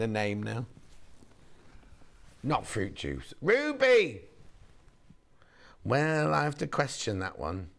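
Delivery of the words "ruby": eager guess. Real, not acted. Guessing the fabric's name.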